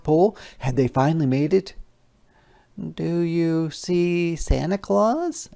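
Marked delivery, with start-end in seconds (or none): 2.8-5.5 Little Red's voice. Acted. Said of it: "asked Little Red".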